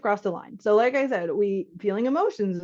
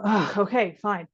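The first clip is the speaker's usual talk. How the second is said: reluctant giving in; slower than usual. Retold or imitated. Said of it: "You go".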